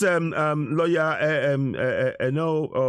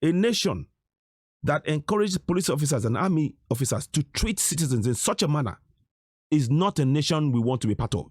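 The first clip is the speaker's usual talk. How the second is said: slowly; 3 semitones lower than usual. Shown as a demonstration. Repeating for viewers who missed it, slowly and deliberately. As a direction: say it again slowly, with pauses between phrases. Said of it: "Let me say it again slowly".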